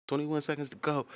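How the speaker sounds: sing-song hook. Retold or imitated. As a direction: lift it up like the hook in your head.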